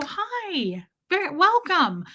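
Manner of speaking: lifted, sociable greeting voice; polite greeting. Retold or imitated. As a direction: mimic a courteous man's hello. Voicing polite men greeting her.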